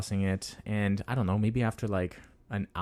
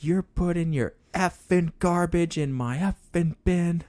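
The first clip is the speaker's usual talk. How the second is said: high imitation of an angry neighbor; mock yelling; 9 semitones higher than usual. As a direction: retell his rant high-pitched, without real volume. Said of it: "like, yelling at me".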